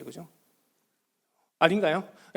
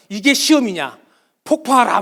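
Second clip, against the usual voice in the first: mock outraged demand, louder; imitated indignant protest; retold protest; 6 dB louder than usual. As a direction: fire it off like an angry online post. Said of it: "뭐 이런 식으로 막".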